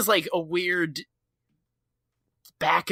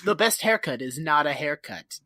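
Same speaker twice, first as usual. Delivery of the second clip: 1 mock sage; 5 semitones lower than usual. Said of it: "Confucius. Like, he's doling out wisdom".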